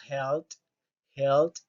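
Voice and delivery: "health" repeated with the ending clear; teacher modelling "health" for the class; model pronunciation. Shown as a demonstration. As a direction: drill "health" slowly. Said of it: "como una letra T".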